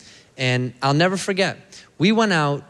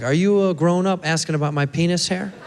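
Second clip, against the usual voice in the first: incredulous comeback; 4 semitones higher than usual. Acted. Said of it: "I'm always like".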